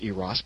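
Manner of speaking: "Eros" as EE-ross; correct pronunciation. Retold or imitated. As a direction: stretch the first EE in "Eros". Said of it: "it's actually pronounced Eros".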